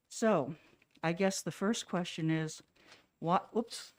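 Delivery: muffled through a face mask; pulling mask down. Real, not acted. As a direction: talk from behind a mask. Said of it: "let me take my mask down".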